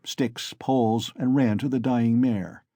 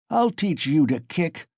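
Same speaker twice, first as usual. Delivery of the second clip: raised, higher threat; ferocious shout; 6 semitones higher than usual. A narrator's reading. Mikolka threatening the kicking mare, ferocious higher shout. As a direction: snarl it at the beast, meaning it. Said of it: "Mikolka shouted ferociously".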